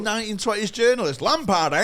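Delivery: a cheeky impression of a 1920s newsman; old-time reporter, mocked loud; mock old-time journalist. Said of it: "that's what he sounds like".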